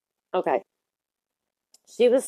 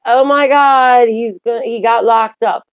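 mock gossip reporter; 4 semitones higher, 5 dB louder than usual. Mocking breathless R. Kelly coverage.

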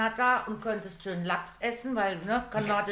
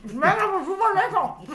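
laughing; 11 semitones higher, 7 dB louder than usual. Real, not acted. Praising food while eating, laughing.

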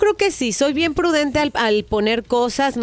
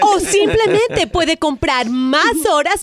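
infomercial; 3 semitones higher than usual. Acted. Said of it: "es una broma telefónica".

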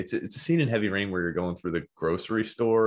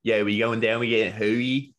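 exaggerated Philly street accent. Co-host joining the accent demo, playful Philly accent. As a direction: stretch the vowels like a Philly local. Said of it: "accent from where I came from".

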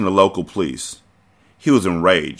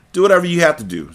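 arrogant; 9 semitones higher, faster than usual. A narrator's reading. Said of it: "Zaire said arrogantly".

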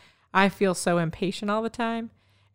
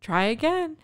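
patient coaching; 9 semitones higher than usual. Retold or imitated. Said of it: "and you would say".

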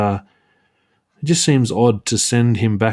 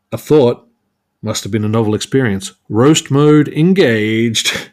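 mock-triumphant punchline; 4 dB louder than usual. Retelling Captain America's joke after botching it, mock-triumphant. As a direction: land the joke big, stretching the last words. Delivers retold punchline, second attempt.

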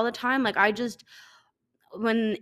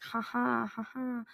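mock polite laugh; 9 dB quieter than usual. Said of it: "you'd be like".

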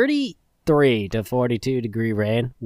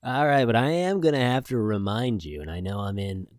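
radio voice. Acted. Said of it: "I'm in quote-unquote radio voice".

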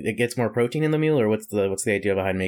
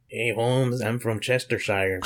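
mock British accent; slower than usual. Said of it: "You should be better at this".

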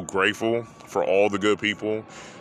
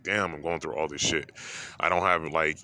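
emotional inner voice; 3 semitones lower, 4 dB quieter than usual. Retold or imitated. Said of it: "I just got hella emotional because I'm like".

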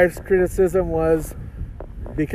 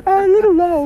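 big heroic voice; superhero voice; 13 semitones higher, 6 dB louder than usual. Acted. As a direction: play the caped hero. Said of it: "Why do you have a superhero voice?".

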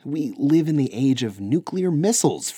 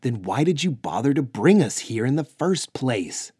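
loud, raised angry accusation; lashing out; 4 semitones higher, 6 dB louder than usual. Acted. Luke lashing out at the Vatir guardians, angry and loud. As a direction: throw it at them in frustration. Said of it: "Luke lashed out".

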